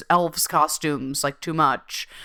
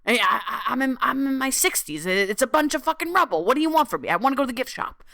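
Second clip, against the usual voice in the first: higher, whiny put-upon mom; mom's voice; 7 semitones higher, faster than usual. Retold or imitated. Mom complaining about the ruins, higher whiny voice. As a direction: play the grumbling mother who wants the gift shop. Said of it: "She's like".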